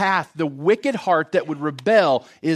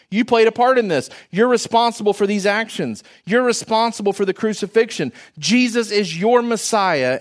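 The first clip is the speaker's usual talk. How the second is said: firm accusation, higher and louder; accusing; 6 semitones higher, 4 dB louder than usual. Acted. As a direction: confront the crowd with their guilt. Peter accusing the crowd.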